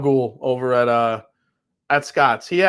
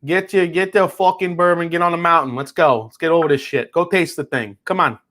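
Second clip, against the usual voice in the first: lightly put-on Italian-American mobster accent; Sopranos-style Italian-American. Mobster ordering Audriana to go taste bourbon, mock Italian-American accent. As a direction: hurry her along like a Sopranos wise guy. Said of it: "like Sopranos".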